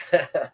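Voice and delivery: short acted laugh of scorn; mock girlish laugh. Little girl laughing at boy's boast, mock laugh. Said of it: "and she laughs".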